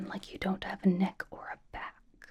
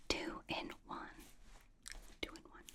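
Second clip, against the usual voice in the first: much softer repeat of a slogan; hushed echo; 18 dB quieter than usual. Shown as a demonstration. Host echoing the blanket's selling point, hushed echo. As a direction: let the slogan fade away under the breath.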